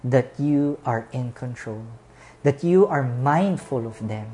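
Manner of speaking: earnest pastor's closing prayer. Acted. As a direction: pray over the congregation with music.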